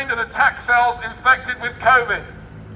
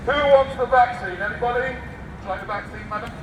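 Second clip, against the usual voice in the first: mock vendor; 3 semitones higher than usual.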